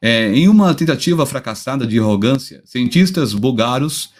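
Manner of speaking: speaking carefully after a tooth was pulled; after tooth extraction. Real, not acted. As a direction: sore mouth after dental surgery, careful speech. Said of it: "a voz meio faiosa, porque eu tô com o dente meio operado".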